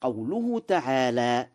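normal talking voice

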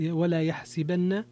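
يحسبن said "yahsibanna", with an i after the s; kasra on seen. Shown as a demonstration. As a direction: repeat يحسبن with "si" in the middle. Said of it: "بكسر السين".

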